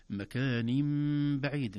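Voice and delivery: مكان بعيد slow, nun turned to a nasal meem; slow model recitation; correct recitation. Shown as a demonstration. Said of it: "لاحظوا أحبتي كلمة".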